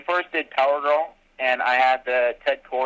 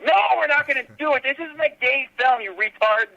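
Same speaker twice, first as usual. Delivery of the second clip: higher, fast mock-indignant snap; hammed-up exasperated denial; annoyed retort; 13 semitones higher than usual. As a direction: shut the question down hard. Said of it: "I go".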